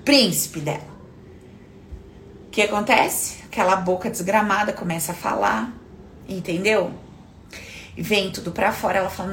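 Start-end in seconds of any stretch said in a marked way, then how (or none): none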